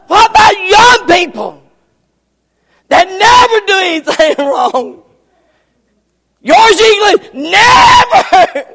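loud amused mock disbelief; laughing teasing. Real, not acted. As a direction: tease the youngsters while cracking up. Mocking young people, laughing.

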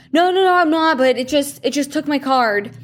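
high and upset, words tumbling out; a stranded tourist, flustered and pleading; distraught. Retold or imitated. Man whose card the ATM ate, distraught and high-pitched. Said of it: "he just looked distraught".

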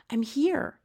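put-on high-pitched little girl's voice. A narrator's reading. Sophie answers from under the cloak, high-pitched. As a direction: pipe up in a high voice. Small girl answers the giant.

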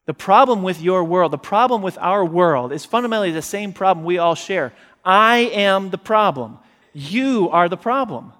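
loud, pressing climax; loud emphatic sermon climax; preaching at full force. Acted. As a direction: hammer home that we are the problem.

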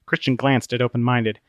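plain reading voice

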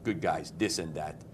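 low mock Quebecois accent; Quebec French accent. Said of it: "Two guys from Montreal, or de Quebec, eh?".

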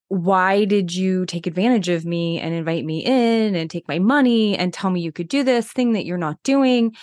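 mildly exasperated accusation, rising in pitch; retold anger. Healthcare worker confronts the office over her son's prescription, mildly angry. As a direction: replay an indignant complaint, without shouting. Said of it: "getting more and more angry".

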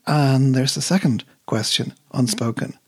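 measured poem reading, lightly voicing the bus driver; steady reading voice that fades on the last lines. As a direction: read the poem aloud, easing the quoted lines into life. Reads the poem aloud.

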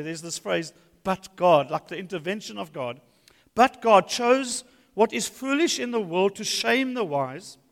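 emphatic scripture reading; proclaiming the text to the church. Acted. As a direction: read it out with weight. Reads scripture aloud.

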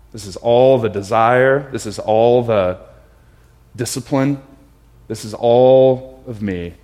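"all" drawn out loud and slow; loud, slow, heartfelt offering with "all" stretched; earnest confession. Retold or imitated. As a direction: lean hard and long on each "all". Confessing to Jesus all one has.

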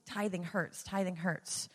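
mock whining about money; whiny complaint. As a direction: whine it like a reluctant giver. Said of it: "remove the buttons of".

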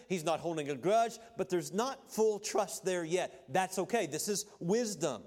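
ordinary talk, nothing marked

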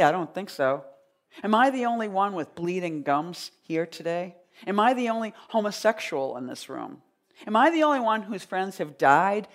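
declaimed, rhythmic performance reading; poem reading. Acted. Poet reading her American poem to a live audience, declamatory. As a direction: read it out to the room like a spoken-word poem.

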